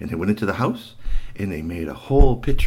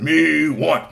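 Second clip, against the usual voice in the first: Bigfoot grunt; 5 semitones higher, 4 dB louder than usual. Acted. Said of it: "Bigfoot said".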